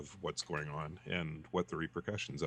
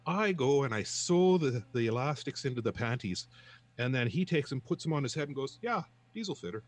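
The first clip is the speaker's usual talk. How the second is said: much higher and louder, indignant rant; outraged protest; 7 semitones higher, 5 dB louder than usual. Acted. Johnny protesting to the clerk, high indignant rant. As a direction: protest hotly, building to the punchline. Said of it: "He says".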